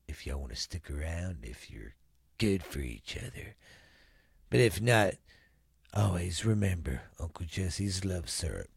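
low, soft fake commercial pitch; smooth late-night ad voice; ad read voice. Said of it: "this episode is brought to us by".

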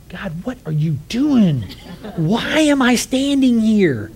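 slow, high, half-laughing plea; bewildered laughing plea. Retold or imitated. Preacher retelling his inner plea to God, slow and half laughing. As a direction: laugh helplessly at the awkward moment.

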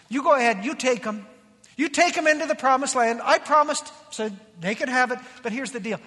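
mildly fed-up voice of God, firm on the orders; lightly acted divine irritation; ticked off God. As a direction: imitate an exasperated God handing the job over. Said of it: "a very ticked off God".

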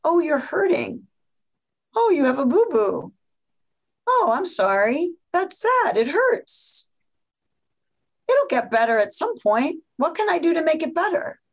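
put-on gently comforting a hurt child; soothing mom. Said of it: "gets down kid level, eye to eye".

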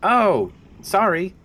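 loud, high-pitched apology; flustered apology. Acted. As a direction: blurt it out high, caught off guard. Flustered apology after being corrected.

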